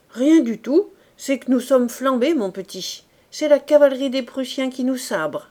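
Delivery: put-on a sutler woman hurrying a boy along; brisk cantinière.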